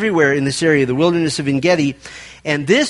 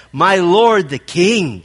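calling out; 2 semitones higher, slower than usual. Retold or imitated. David calls after Saul leaving the cave, calling out. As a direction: hail the king from the cave mouth. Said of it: "he called to Saul".

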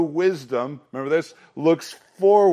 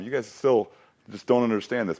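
usual speaking voice

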